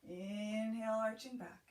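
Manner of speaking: shaky, trembling breath. Real, not acted. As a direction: voice trembling on the exhale. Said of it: "You can hear my voice trembling a little bit with my exhale".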